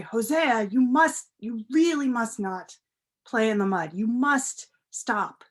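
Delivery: father scolding son somewhat sternly, firmly. Acted. Father scolds muddy Hosea, mildly stern. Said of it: "somewhat sternly".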